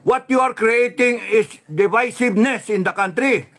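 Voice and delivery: angry rant. Real, not acted. Angry commentator insulting the president. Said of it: "galit na galit ako".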